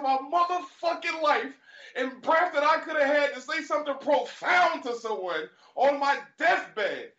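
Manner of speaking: high, slow furious mock rant; hammed-up rage at the guy who wasted his time; sudden outburst. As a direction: explode at him, stretching the words. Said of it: "all of a sudden goes".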